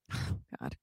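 breathy, sighing "oh God" of exasperation; exasperated sigh. Retold or imitated. Casting director sighing at an actor, exasperated. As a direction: sigh it out like you're fed up.

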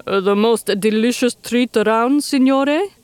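lightly voiced eager henchman; a hint of a grinning crocodile; crony answers his boss, lightly voiced. A narrator's reading.

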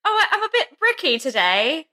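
high-pitched mock British sufferer, laughing through it; fake British accent. Podcaster acting a constipated party guest, fake British accent. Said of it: "whenever we do, like, a fake British accent".

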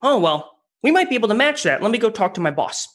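lightly voiced eager junior rep, quick; a hint of caving too fast; mock junior rep. Mocking a junior rep folding on price. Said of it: "natural tendency of the junior A E".

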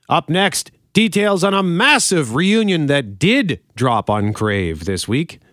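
punchy radio teaser, key words stretched; polished broadcast link; radio host read. Acted.

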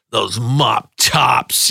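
slow, sneering stepfather; mild mock disgust. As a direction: drag it out with contempt. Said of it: "in disgust".

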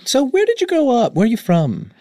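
high interviewer voice through a cup. Acted. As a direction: speak into a cup like a microphone. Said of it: "maybe I'll talk into a cup".

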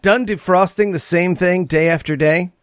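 lightly voiced ad announcer; a hint of infomercial host. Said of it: "why are you doing announcer voice?".

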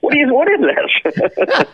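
slow, climbing scornful disbelief; mocking store owner. Store owner mocking the pedals, scornful rising whine. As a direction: sneer at each pedal. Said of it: "he's just like".

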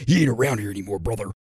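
hammed-up wrestler impression, trailing off on "brother"; Randy Savage. Wrestler dismissing a rival to Kurt, hammed-up impression. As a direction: growl it like a wrestling promo. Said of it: "you want a Randy Savage birthday".

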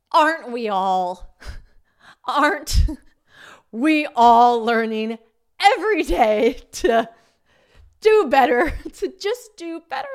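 slow, loud, preachy wisdom with laughs; mock-wise words to the trainee; mock profound. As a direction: ham up the sage.

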